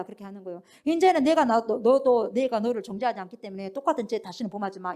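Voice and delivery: ordinary talk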